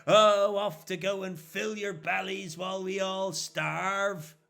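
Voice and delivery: jeering, mocking catcalls at the travellers; catcalling rural youths. Rural youths jeer at passing priests, mocking catcalls. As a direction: taunt them like a loud country yob. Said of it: "whistling and catcalling at you".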